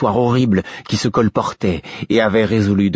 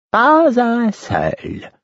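high, slow hysterical cry; much slower than usual. A narrator's reading. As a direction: break into a high hysterical wail. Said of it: "Une note hystérique".

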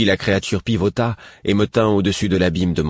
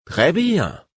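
très haut, puis chute; concéder comme une menace; dragonne moqueuse; 12 semitones higher, 4 dB louder than usual. A narrator's reading. Dragon complies threateningly. (accord menaçant, voix perchée)

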